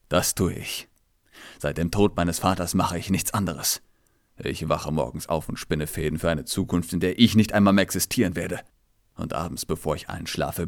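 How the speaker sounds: a hint of a tired, bitter king; weary king.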